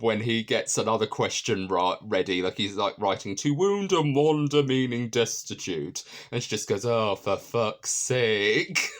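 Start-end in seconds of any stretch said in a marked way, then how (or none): 3.4-6.0 slow, higher, announcing the clue; reading a clue aloud. Retold or imitated. 6.9-8.9 put-on very slow, exasperated Welsh accent; Welsh accent imitation. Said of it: "in her Welsh accent".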